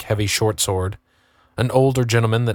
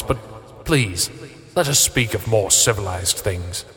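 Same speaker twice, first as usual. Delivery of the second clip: cooing; slower than usual. A narrator's reading. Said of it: "Slade cooed".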